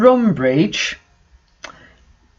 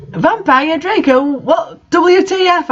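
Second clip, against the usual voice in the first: put-on squeaky, much higher valley-girl voice; high girly voice; 10 semitones higher than usual. A narrator's reading. Ebony gasping at the boys fighting, squeaky and high. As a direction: play the dim goth girl, shrill and shocked.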